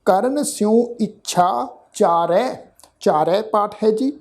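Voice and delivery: slow, careful verse reading with pauses; slow recitation. Shown as a demonstration. Teacher showing the sangat how to recite. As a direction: lay out every word for listeners to copy. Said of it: "ਇਹਨੂੰ ਸੁਣੋ ਜੀ ਧਿਆਨ ਨਾਲ".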